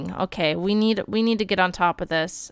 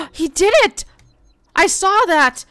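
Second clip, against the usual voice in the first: much higher, louder thrilled cheer; excited cheer; 8 semitones higher, 5 dB louder than usual. Real, not acted. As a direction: celebrate like you caught a first step. Baby rolled over.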